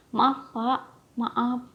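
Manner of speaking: hurried breathy whispered sorry; embarrassed whisper. Acted. Embarrassed after hugging boss in lift.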